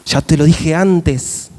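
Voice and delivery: slow, calm patient reminder; patient God. Pretend. God calmly reminding the complaining believer. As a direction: remind him gently, taking your time. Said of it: "me imagino a Dios diciendo".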